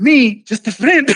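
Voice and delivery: high, rising disbelief; incredulous. Retold or imitated. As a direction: ask it stunned and hurt. Stunned disbelief.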